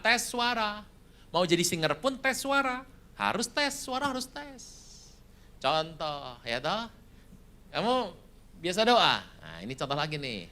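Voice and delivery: ordinary talk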